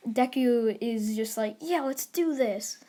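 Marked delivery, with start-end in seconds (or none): 1.6-2.8 mildly excited, drawn-out agreement; retold eagerness, taken slowly. Deku agrees to a fight, mildly excited. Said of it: "He's pretty excited".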